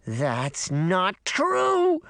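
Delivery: slow, lightly voiced small girl; little girl insisting. A narrator's reading. Lost girl repeating to herself, slow and stubborn. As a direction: murmur it stubbornly to yourself. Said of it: "she said to herself over and over".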